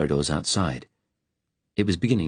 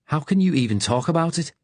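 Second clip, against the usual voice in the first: put-on Liverpudlian accent; 9 semitones higher than usual. A narrator's reading. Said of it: "The Liverpudlian accent".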